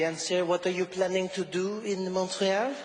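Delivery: put-on border officer flirting in a French accent; flirty French-accented officer. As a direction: question them seductively with a French accent. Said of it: "It was really sexy".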